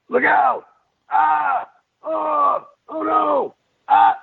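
high screaming gameplay yells; death cry. Shown as a demonstration. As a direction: scream out like you're being hit. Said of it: "twenty-five versions of that".

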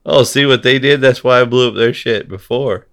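mock self-justifying. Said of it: "they were like".

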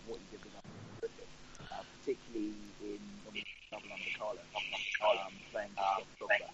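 bad line, voice dropping out; patchy connection, volume fading away. Real, not acted. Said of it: "you sound like you're on the International Space Station".

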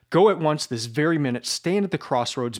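burning, breathless insistence; fervent plea. Acted. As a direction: push him to go now. Sonia pleads passionately for confession.

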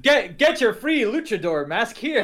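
mock ad announcer; cereal commercial. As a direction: hype the free prize. Joins the cereal ad bit.

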